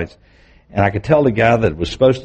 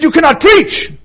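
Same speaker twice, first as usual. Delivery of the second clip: stern ban; 6 dB louder than usual. Retold or imitated. Police chief forbids him preaching.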